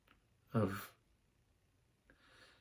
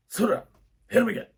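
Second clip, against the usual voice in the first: high, strained mock yell; short high-pitched cheers thrown at a screen; imitated dad yelling; 11 semitones higher, 3 dB louder, faster than usual. Dad urging Rocky on against the fighter, imitated yell. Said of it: "yell things at the screen".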